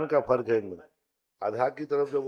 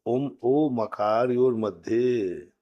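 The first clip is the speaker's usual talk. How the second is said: slow loud recitation; 3 dB louder, much slower than usual. Shown as a demonstration. Teacher repeating the rule slowly for students. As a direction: recite the sutra slowly and louder.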